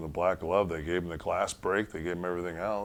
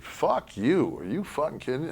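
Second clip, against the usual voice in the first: higher, louder snap of disbelief; angry retort; 9 semitones higher, 4 dB louder than usual. Retold or imitated. Yoko snapping back at the locker room, angry. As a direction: hit back in disgust. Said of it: "Yoko said".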